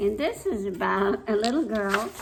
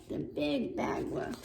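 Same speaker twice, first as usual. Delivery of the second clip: hushed whisper of fear; 6 semitones lower, 6 dB quieter than usual. A narrator's reading. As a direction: breathe it out, barely a sound. Pig whispers the warning.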